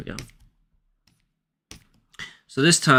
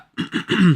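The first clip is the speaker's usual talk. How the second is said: sharp throat clearing; 8 semitones higher than usual. Real, not acted. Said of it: "I'm trying to clear my throat".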